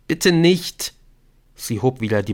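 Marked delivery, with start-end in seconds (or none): 0.1-0.9 high, frightened begging; desperate high-pitched plea; pleading. Acted. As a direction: beg for your life. Captive begs at the window.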